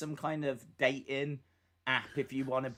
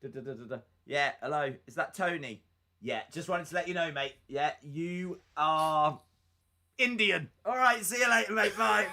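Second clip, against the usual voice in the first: mock phone call; 3 semitones higher than usual. Acts a results phone call.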